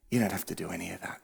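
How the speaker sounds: soft God voice. Acted. God voiced softly in sermon.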